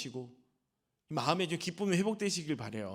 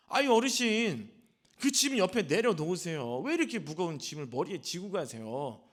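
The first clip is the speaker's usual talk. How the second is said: mock call; 2 semitones higher, 4 dB louder than usual. Driver calling to grandmother.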